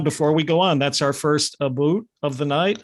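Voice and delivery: put-on light joking Canadian accent; tossing in a mock Canadian accent. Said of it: "I'm trying to do my Canadian accent here".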